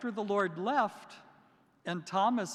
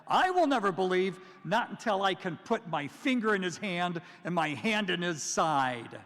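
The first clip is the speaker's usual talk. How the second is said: louder, insistent refusal; defiant declaration; 4 dB louder than usual. Retold or imitated. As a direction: throw the challenge out. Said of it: "We shouldn't do that".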